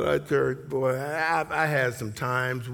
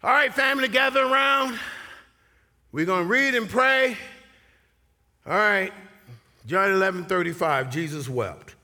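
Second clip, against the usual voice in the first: mock dutiful call; 3 semitones higher than usual. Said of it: "if all you do is read".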